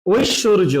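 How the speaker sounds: ঐশ্বর্য in careful syllables, oish-shor-jo; teacher repeating ঐশ্বর্য as a model; j sound demo. Shown as a demonstration. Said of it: "বর্গীয় জ হয়ে যায়".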